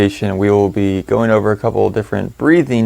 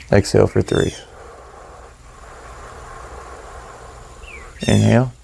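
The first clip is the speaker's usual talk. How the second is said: sparse, even cues with long silences, exhale trailing softer; guided breathing cues; 8 dB quieter, faster than usual. Acted. Guide counting listeners through inhales and exhales, calm breathing cues. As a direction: pace their breathing, one calm word at a time.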